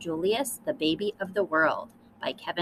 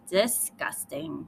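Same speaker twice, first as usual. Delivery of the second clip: disgusted; 3 semitones lower, slower than usual. Acted. Lily reacts again.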